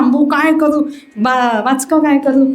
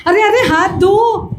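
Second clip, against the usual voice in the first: laughing call; 7 semitones higher than usual. Acted. Chokha calls after hurrying Vitthal.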